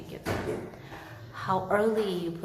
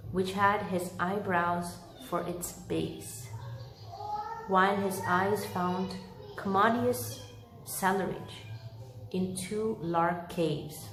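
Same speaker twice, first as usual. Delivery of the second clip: story narration. A narrator's reading. Reads Dickens chapter aloud.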